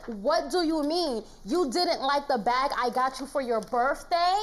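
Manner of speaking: mocking the ex's texts in court; mocking his voice. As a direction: read his text as a whiny plea. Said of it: "Why you read it like that?".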